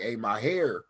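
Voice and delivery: "hair" ending on a firmly pronounced R; imitated West Coast R on "hair"; hard California R. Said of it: "y'all R's real hard in California".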